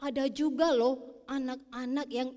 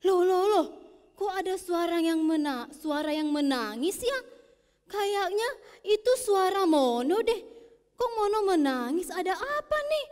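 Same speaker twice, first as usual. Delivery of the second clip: mother; 5 semitones higher, 5 dB louder than usual. Acted. Mother hears crying, alarmed.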